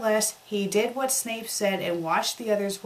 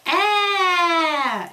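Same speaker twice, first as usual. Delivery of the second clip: high, loud hammed-up scream; 9 semitones higher, 7 dB louder than usual. Laa-Laa screams in the story, high and loud. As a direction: shriek it out big and high. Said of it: "She screamed".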